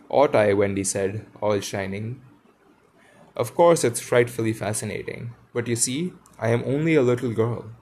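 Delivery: storybook reading voice, lively dialogue; story narration. Acted. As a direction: read it like a bedtime story to listeners. Reads Peter Pan aloud.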